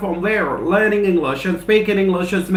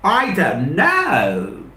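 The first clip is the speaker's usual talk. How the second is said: slow, lower shrugging i don't know; drawn-out i don't know; 3 semitones lower, much slower than usual. Acted. Asking students how long, then answering slowly and lower with a shrug. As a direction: let the answer hang, unsure. Rhetorical question answered by himself.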